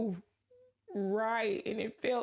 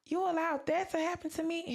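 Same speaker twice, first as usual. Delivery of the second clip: mildly indignant, higher-pitched questioning of God; retold protest, rising higher toward the end; retold anger at God; 5 semitones higher than usual. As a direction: challenge God with hurt disbelief, retelling it. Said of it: "And I was angry at God".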